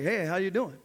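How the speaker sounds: lightly imitated elderly greeting; a hint of an old man's shake; casual hello in a mildly aged voice; shaky old man. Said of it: "he would shake a little bit".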